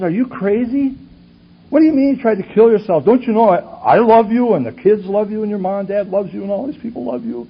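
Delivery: high, loud, exasperated outburst; indignant scolding. Retold or imitated. Husband berating his wife over her suicide attempt, indignant. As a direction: berate them in disbelief, pitched well up.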